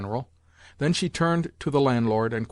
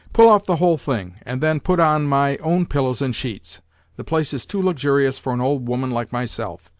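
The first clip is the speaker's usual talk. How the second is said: lightly voiced old lady, louder on the first command; imperious grandmother; 2 semitones higher, 3 dB louder than usual. Grandmother ordering servants and inviting the tutor, lightly imperious. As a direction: boss everyone around, then soften for the tutor.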